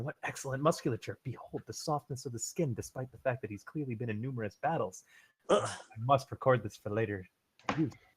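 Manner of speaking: soft, murmured muttering to himself under the breath. A game narrator voices an elf examining a player's character, muttering softly to himself. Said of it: "He's muttering to himself softly".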